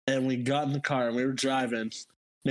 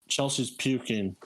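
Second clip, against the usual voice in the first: imitating a calm, matter-of-fact announcement; understated, unbothered delivery; calm report; 2 semitones lower than usual. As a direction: retell it with no alarm at all. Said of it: "he said it all calmly".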